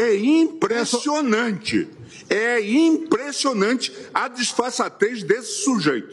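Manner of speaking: real indignation. Real, not acted. Accusing an opponent before the court, indignant. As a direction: drive each word home in outrage.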